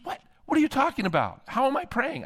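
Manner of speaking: high, incredulous retort; acted bafflement. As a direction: question it in disbelief, pitch jumping up. Baffled golfer challenges the pastor's claim.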